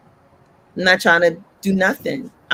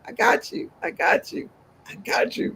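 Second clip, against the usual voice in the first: fading into a soft whisper; reassuring hush; 6 dB quieter than usual. Retold or imitated. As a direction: whisper comfort as if close by. God reassuring her in water.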